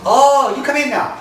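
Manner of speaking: high, loud mock Chinese accent; imitated restaurant lady's accent. Restaurant lady invites the caller in, imitated Chinese accent. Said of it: "make it sound like what she sounded like to me".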